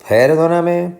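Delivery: perdóname wrongly stressed on high PER; stress on first syllable. Shown as a demonstration. Teacher testing stress options, first-syllable stress on perdóname. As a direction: punch the opening high: PER-do-na-me. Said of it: "Va a ser perdóname".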